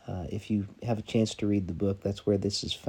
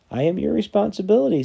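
high, louder insistence; insistent call; 12 semitones higher, 9 dB louder than usual. Acted. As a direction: press the point up at him. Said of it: "said the stranger".

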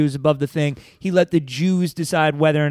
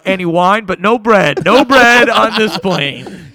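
flight announcement; 4 dB louder than usual. Pretend. Continuing in-flight announcement bit.

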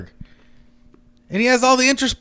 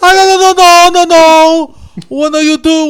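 bad Hispanic accent; 5 semitones higher, 5 dB louder than usual. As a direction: wail it in a terrible Hispanic accent. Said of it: "the worst Hispanic accent".

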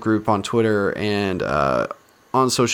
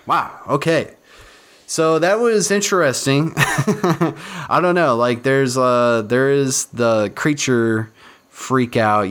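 usual speaking voice

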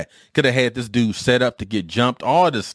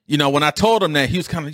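normal talking voice

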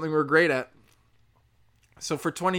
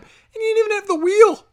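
higher and louder, a scornful yell; shouting them down; mocking shout; 8 dB louder than usual. Real, not acted. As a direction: hurl the insult at them. Ranting at Native Americans.

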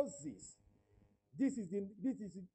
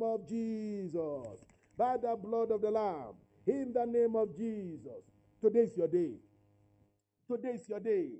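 declaratory prayer. Real, not acted. Preacher praying over those seeking a child, emphatic declaration. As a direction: pray with authority, stretching the name of Jesus.

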